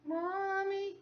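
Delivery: put-on high, sing-out child's call; Rachel. Daughter pestering mom who won't look at her, wheedling. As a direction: plead like a kid who won't be ignored. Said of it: "Yes, Rachel".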